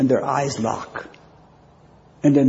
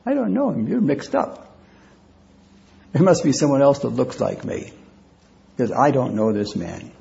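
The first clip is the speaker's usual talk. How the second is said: Peter's frantic denial. Acted. Peter cornered by the servant girl, panicked denial. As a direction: deny it in a rising panic. Peter denies knowing Jesus.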